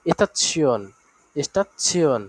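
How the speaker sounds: "এস্তাসিয়ন" with the ending as si-on; German ending demonstrated. Shown as a demonstration. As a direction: model "এস্তাসিয়ন" twice, falling each time. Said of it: "শিয়ন উচ্চারণ করা হয়".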